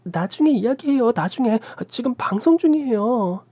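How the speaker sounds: high, hurried plea to back off; begging for time, flustered. A narrator's reading. Startled brother-in-law pleading with his aunt mid-broadcast. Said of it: "놀라서 시고모님을 부르며 양해를 구했습니다".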